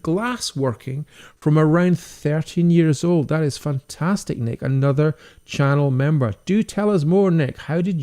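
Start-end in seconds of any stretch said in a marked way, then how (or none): 0.0-3.3 slower and admiring, savouring each word; impressed echo. Real, not acted. Echoing a viewer's comment back to him, impressed and slow. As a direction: repeat it like it's something to marvel at. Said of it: "that is brilliant".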